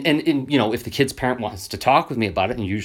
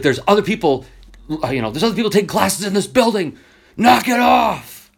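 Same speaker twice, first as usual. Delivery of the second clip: angry neighbour teacher; 8 semitones higher, 5 dB louder than usual. Retold or imitated. Angry teacher scolding the noisy class, building to a shout. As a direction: play the furious teacher until she yells the last words. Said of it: "She was so angry".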